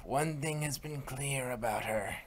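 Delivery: hushed unvoiced whisper. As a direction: lean in and whisper it slowly. Confiding about Checker.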